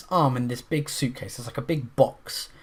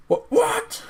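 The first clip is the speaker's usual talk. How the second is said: startled; 4 dB louder than usual. Retold or imitated. Mock startled character reaction.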